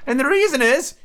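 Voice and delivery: high, plaintive turtle voice; a high sad creature voice; Mock Turtle voice.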